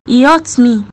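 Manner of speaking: loud, hurt accusation; angry outburst; mad. Acted. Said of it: "I know you're mad at him".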